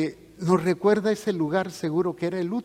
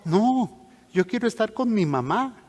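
put-on higher, pleading child's protest; tender young girl; 6 semitones higher than usual. Sick girl tells the priest she wants her mamá, tender higher-voiced insistence. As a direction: lightly imitate a girl insisting on her mother. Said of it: "me decía muy tierna".

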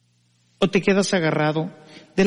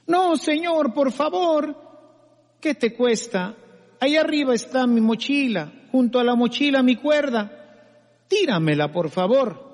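pleading climber; 4 semitones higher than usual. Acted.

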